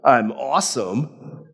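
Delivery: boastful king. Retold or imitated. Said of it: "The kings would talk about".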